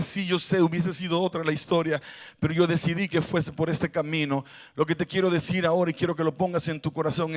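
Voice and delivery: voice of God. Acted. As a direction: speak as God, low, soft and steady. Speaks as God.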